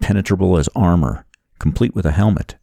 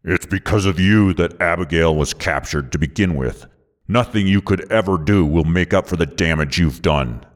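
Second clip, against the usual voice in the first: lightly voiced contemptuous antagonist; accusing villain. A narrator's reading. Villain blaming the hero for her capture, accusing. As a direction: lay the blame in the villain's voice.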